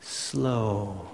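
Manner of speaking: hushed single word. Shown as a demonstration. Repeats the word alone.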